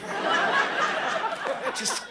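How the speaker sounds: very high, very slow laughing whine; laughing squeal. Real, not acted.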